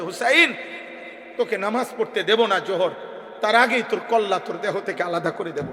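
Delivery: ordinary delivery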